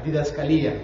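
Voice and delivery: "didascalía" with the accent on the í; stress on final I. Shown as a demonstration. Teacher showing the newly learned "didascalía", stressed final í. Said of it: "con acento en la I".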